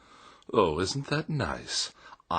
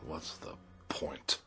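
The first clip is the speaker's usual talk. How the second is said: gloomy self-pity; 2 semitones lower, 7 dB quieter than usual. Acted.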